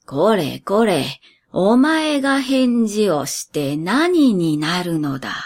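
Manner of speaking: a hint of a gentle scolding master; lightly voiced old master.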